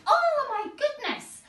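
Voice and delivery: high, loud shriek of fright; a startled girl jumping awake; frightened scream. Acted. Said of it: "She screamed".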